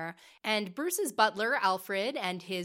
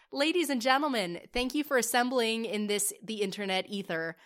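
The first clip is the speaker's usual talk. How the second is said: grand ringmaster introduction, louder; showman announcer; 2 semitones higher, 3 dB louder than usual. Acted. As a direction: present it like a stage host.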